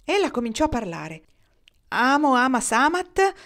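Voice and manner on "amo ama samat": loud, high, slow Latin retort; vexed, emphatic recitation; irritated retort. A narrator's reading. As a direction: fling the words out crossly. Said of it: "rispose stizzita".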